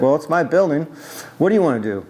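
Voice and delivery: a hint of a thick Greek accent, owner asserting; mild Greek accent, proud owner. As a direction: claim the building in a lightly put-on Greek accent. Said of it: "he had a thick accent".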